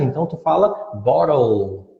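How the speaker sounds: "bottle" ending on a clear L, tongue on the roof of the mouth; "bottle" ending in a crisp L; bottle with a real L. Shown as a demonstration. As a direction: finish "bottle" with a full L, no U. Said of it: "tem o som do L de verdade".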